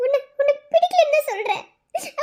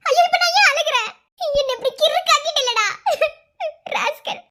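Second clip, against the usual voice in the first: laughing through tears; 2 semitones higher than usual. Acted.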